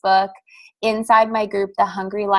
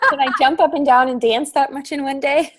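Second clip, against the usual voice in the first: laughing; 6 semitones higher than usual. Real, not acted. Excited laughing about the event.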